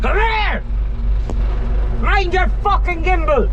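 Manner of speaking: high, loud urgent shout. Real, not acted. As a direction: bellow a warning.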